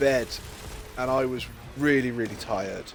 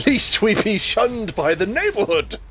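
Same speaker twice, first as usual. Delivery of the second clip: hammed-up proclamation; 6 semitones higher, 4 dB louder than usual. Joking about British tea duty.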